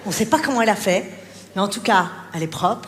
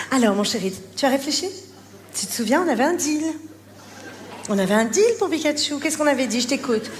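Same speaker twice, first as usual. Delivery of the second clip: mock calm mother. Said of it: "la maman Calme".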